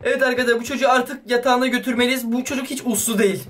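normal talking voice

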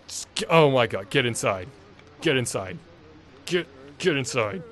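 loud exasperated yell; raging gamer. Real, not acted. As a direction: bark orders at the screen. Yelling at game character.

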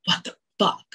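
whispered disbelief; stunned whisper to yourself; inner disbelief. Retold or imitated. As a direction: mouth it under your breath in shock. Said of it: "you wanna scream internally".

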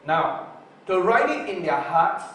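ordinary talk

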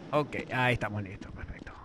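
hushed whisper to himself. Real, not acted. Gamer whispering to himself that he's ready. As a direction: breathe the words out, no voice. Quiet moment while playing.

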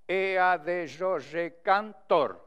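slow, evenly spaced syllables; syllable-by-syllable scansion. Shown as a demonstration. Teacher scanning a verse to its seventh syllable, slow syllable-by-syllable delivery. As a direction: count out the verse beat by beat to its final stress. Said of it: "é a sétima".

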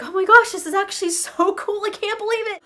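thrilled. Acted. Girl thrilled by the sleigh ride, excited. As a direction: gush with amazement.

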